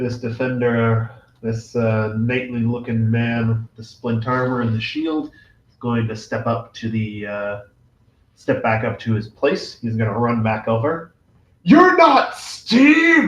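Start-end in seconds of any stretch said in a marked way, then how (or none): 11.6-13.3 very loud, very high, shrill, indignant full-volume shout. Voicing a defender who runs back to his place: indignant shout. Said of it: "he shouts, um, indignant as he comes".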